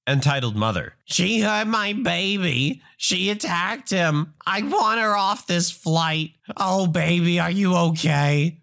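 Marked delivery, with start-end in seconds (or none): 1.0-6.3 high, slow mock-sobbing wail; hammed-up sobbing mother. Entitled mother complains to flight attendant, mock sobbing. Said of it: "entitled mother is sobbing to her". 6.6-8.6 drawn-out mock-doting Karen voice; mother to her kid. Entitled mother checks on her kid, hammed-up fussing. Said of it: "Talking to her kid".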